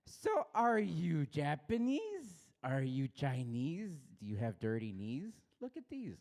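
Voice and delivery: slow, high singsong quiz; playful mocking chant; mock guessing game. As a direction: tease the rider like a game host. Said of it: "I'd be like".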